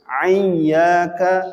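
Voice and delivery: Iyyaka said with a clear y, not an ain; correct iyyaka. Shown as a demonstration. Teacher correcting iyyaka for the congregation. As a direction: say Iyyaka without the throat ain. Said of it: "jangan dirubah menjadi ain".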